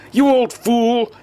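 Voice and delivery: slow, high-pitched exasperated yell. A narrator's reading. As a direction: yell the insult, drawing it out. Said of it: "Seville yelled".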